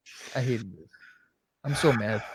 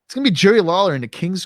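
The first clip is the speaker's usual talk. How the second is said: emphatic rant; 5 semitones higher, 4 dB louder than usual. Real, not acted. Ranting about the booking.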